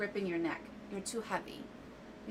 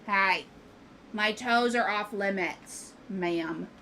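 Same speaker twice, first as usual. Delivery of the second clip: startled scolding; 9 dB louder, much slower than usual. Real, not acted. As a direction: tell the cat off for biting toes. Cat bites toes, scolding.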